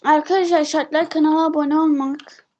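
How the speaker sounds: talking while chewing gum; words around a wad of gum. Real, not acted. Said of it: "nane sakız çiğniyorum, ağzım yanıyor". (sakız çiğnerken konuşma)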